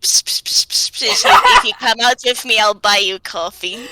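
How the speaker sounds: flat deadpan psst then rushed offer; bored deadpan bribe, quick. Pretend. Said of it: "a deadpan kind of voice".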